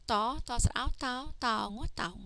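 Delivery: teacher chaining letters into "Tao"; spelling-out demo. Shown as a demonstration. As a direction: build "Tao" from "Ta", "Sa, Ao" and "Ngo". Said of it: "just like this".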